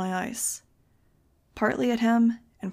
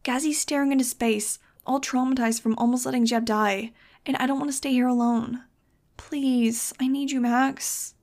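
put-on pleading kid; 4 semitones higher, 4 dB louder than usual. Nudge pleading with Max.

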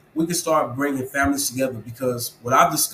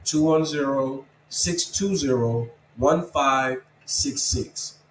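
slow number dictation; slower than usual. Real, not acted. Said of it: "call me on my phone number".

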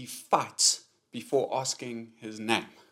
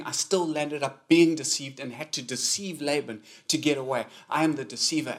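louder, pressing confession as Jacob the deceiver; voicing Jacob's confession; 5 dB louder than usual. Jacob admits to God he is a deceiver, louder and insistent. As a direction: preach it as Jacob owning his name.

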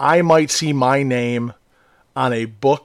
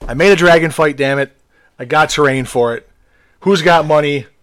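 excited retelling; 5 dB louder than usual. Retold or imitated. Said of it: "and I'm like".

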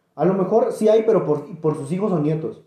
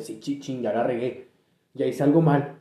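dog's guilty thoughts; 5 semitones lower, 5 dB quieter than usual. Retold or imitated. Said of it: "porque decía".

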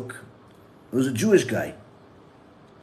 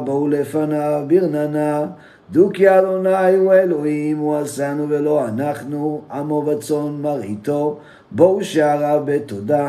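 fast, rhythmic davening through the psalm; rapid Hebrew prayer reading; much faster than usual. Acted. Rabbi reading the psalm to his listeners, fast davening. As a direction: rattle off the Hebrew verses like daily prayer.

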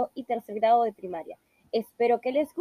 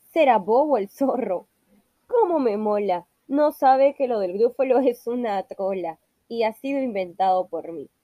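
louder, pleased with itself; gloating mouse; 5 dB louder than usual. Acted. The mouse gloats that the fox fell for the lie, louder and delighted. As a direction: crow over the trick.

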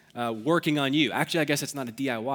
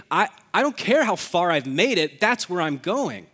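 higher, louder, emphatic resolve; mock determined runner; 4 semitones higher, 4 dB louder than usual. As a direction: push it out as a driven racer. Imagined runner refusing to slow down.

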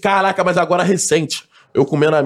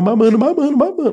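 rising excitement; 6 semitones higher than usual. Retold or imitated. Retelling mounting excitement in bed.

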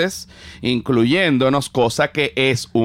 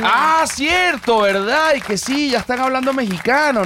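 much higher, teasing mimicry of friends; high mock voice; 11 semitones higher than usual. Mocking the friends who said they sound Mexican, high teasing voice. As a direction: pitch it way up like a gossiping friend.

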